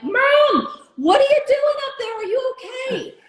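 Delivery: high, loud worried call up to the roof; high alarmed call upward; calling up to mom. Retold or imitated. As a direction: shout up to your mom, alarmed.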